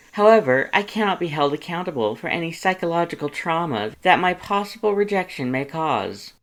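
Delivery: very loud and high, puffed up with self-importance; pompous boasting suitor. Acted. Vain suitor assuring his friends he won't kill anyone, grandly loud. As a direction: preen like a vain aristocrat.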